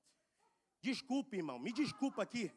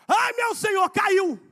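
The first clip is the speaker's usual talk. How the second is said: high retold cry of alarm; boy's cry; 7 semitones higher, 5 dB louder, slower than usual. Boy telling his master the axe head fell, high retold cry. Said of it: "o menino gritou assim".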